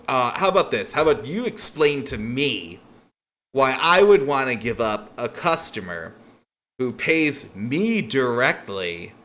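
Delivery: a crime boss pressing for a better deal; boss bargaining. Acted. Frank challenging Mox.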